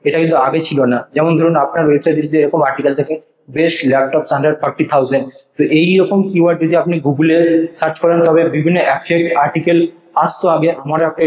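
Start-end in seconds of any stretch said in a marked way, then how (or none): 3.6-5.2 slow dictation. Shown as a demonstration. Typing a search query aloud.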